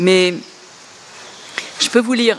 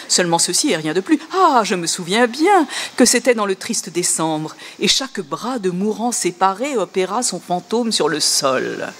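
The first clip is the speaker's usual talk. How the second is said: mock poem reading. Shown as a demonstration. Lecturer reading Google's translation aloud, amused mock recital. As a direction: read the Google version with a wry grin. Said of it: "je vais vous lire un peu plus longuement".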